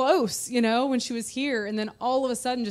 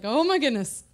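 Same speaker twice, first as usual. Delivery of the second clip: retold freak-out; 5 semitones higher, faster than usual. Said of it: "like, freaking out inside".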